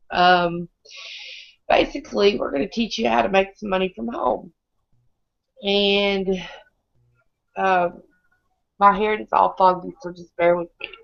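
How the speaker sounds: hoarse sick voice; pushing sound through a sore throat; lost voice. Real, not acted. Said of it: "I don't have any voice tonight".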